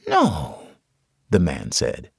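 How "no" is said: put-on patient, as to a child. A narrator's reading. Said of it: "as if speaking to a child".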